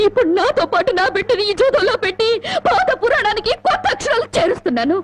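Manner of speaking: laughing bitterly through the words; scornful laugh at her husband's gamble. Acted. Wife mocks gambling husband bitterly.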